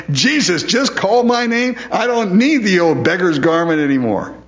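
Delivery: high-pitched, jubilant beggar's cry; acted elation. Preacher voices beggar tossing his garment for Jesus, elated. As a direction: exult as the beggar, voice lifted.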